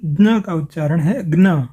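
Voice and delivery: first ज्ञ "jna", final ज्ञ "gna"; Tamil pronunciation. Shown as a demonstration. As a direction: end on ज्ञ said with hard g plus n. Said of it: "Tamil Nadu की परंपरा के अनुसार".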